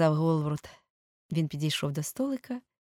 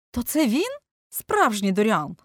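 higher and louder, amazed exclamation; astonished cry; 7 semitones higher, 8 dB louder than usual. A narrator's reading. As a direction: cry out in wonder. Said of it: "скрикнув прообраз портрета".

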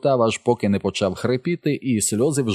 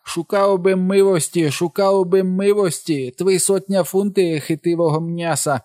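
high, hammed-up pleading servant voice; Jim caricature; 8 semitones higher than usual. A narrator's reading. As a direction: plead in a high, exaggerated put-on dialect. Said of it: "голосом нігера Джима".

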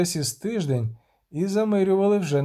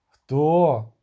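a louder, sharp demand; shouted; 5 dB louder than usual. Acted. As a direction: bark out a single question. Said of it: "крикнув Шевлов". (Шевлов гучно вимагає відповіді)

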